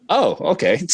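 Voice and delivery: high, stunned oh okay; the news just landing. Retold or imitated. New dad reacting to the pregnancy test, high and stunned.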